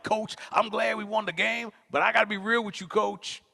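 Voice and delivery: high-pitched, happy appeal to coach; happy young player. Retold or imitated. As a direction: pitch it up, pleased but earnest. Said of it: "I was so happy".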